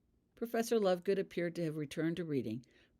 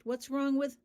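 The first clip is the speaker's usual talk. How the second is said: puzzled question; 9 semitones higher, 4 dB louder than usual. A narrator's reading. Sean cut off mid-question.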